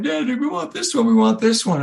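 put-on high pleading kid voice, begging Dad; kids begging for the tree. Kids begging Dad for the big tree, high pleading voice. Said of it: "they're all crying".

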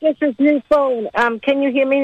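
breaking-up phone line; crackly cordless phone. Real, not acted. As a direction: voice fading in and out on a bad phone. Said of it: "you're fading in and out".

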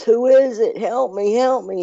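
high-pitched frantic question and plea; mock screaming. Man on the cliff answering a voice, mock screaming. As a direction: imitate a panicked cry, pitched well up. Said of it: "he started screaming".

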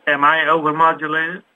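overmodulated, distorted mic; clipped, overdriven phone audio; clipping distorted mic. Real, not acted. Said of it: "You sound a bit overmodulated".

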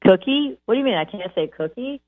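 high, exaggerated innocent questions; mock innocent teasing. Trainer teasing owners who spell dog words, mock innocent and high. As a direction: play dumb, as if the word were harmless. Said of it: "And I'll say".

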